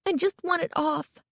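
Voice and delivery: high, fretful grumble; grumble, wanting to be free of it; grumbling. A narrator's reading. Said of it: "Carly Beth grumbled".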